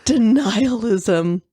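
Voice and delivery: very slow, relishing the word; savoring a new word. Real, not acted. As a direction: roll the new word out slowly. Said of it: "You look super excited as if you want to use that".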